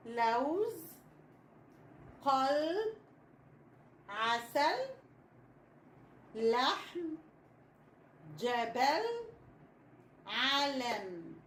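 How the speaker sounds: each word drawn out with pauses between, from لوز to علم; slow model words, mostly rising, علم falling to finish; say-after-me dictation. Shown as a demonstration. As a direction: stretch لوز, قلب, عسل slowly for children to repeat, lifting the endings. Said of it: "قولوا بعدي".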